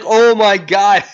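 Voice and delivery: high, loud, drawn-out mock amazement; amused astonishment. Reviewer recalls finding the scene hysterical, drawn-out amused amazement. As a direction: replay being floored and about to laugh. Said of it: "I was laughing. That was so freaking hysterical".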